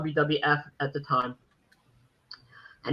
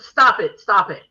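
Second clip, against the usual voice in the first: incredulous protest; 4 dB louder than usual. Retold or imitated. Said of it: "I said".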